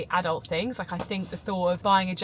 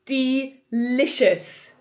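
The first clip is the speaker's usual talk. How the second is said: drawn-out delicious; 3 semitones higher, 6 dB louder, much slower than usual. Acted. Vlogger showing off her lunch, slow, savouring delight. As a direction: stretch the word out slowly, loud and savouring.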